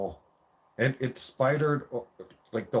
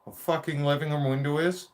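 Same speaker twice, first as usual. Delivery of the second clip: angry dad; 7 semitones higher than usual. Retold or imitated. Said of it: "He's like".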